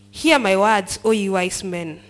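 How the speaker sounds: Elihu's bold address. Acted. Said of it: "there's a way he talks to them".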